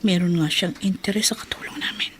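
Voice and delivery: suspicious whisper to herself; breathy inner suspicion; whispered aside. Acted. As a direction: hush it as a private worry. Wife suspects husband, aside.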